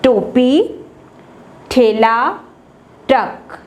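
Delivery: टोपी, ठेला, ट्रक with the first sound hit hard; first sound stressed. Shown as a demonstration. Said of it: "इनके नाम मैं तेज़ी तेज़ी से बोलती हूँ". (पहली आवाज़ पर ज़ोर)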